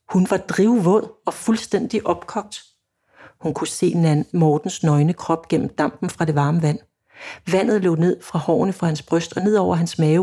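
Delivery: measured story narration; oplæsning. A narrator's reading. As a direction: read the novel passage evenly, pausing between sentences. Reads passage from own novel aloud. (rolig højtlæsning af roman)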